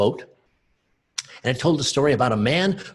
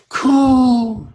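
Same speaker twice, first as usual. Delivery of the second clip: high dove call; dove coo; 11 semitones higher, 10 dB louder than usual. Acted. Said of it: "One was a dove".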